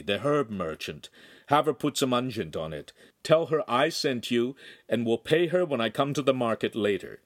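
a hint of a kindly priest; calm, fatherly instructions; priest giving orders.

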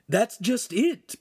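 high, slow, worried character voice; mildly anxious, drawn-out delivery. A narrator's reading. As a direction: stretch it out high with worry. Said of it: "his eyes filled with worry".

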